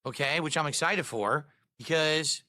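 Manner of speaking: sore, swollen-throat voice; swollen tonsils voice. Real, not acted. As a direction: speak through a swollen throat. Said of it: "sounds like maybe you didn't hit".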